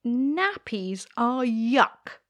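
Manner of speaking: put-on slow, high little girl voice; drawn-out fussy little princess. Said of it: "said the little princess".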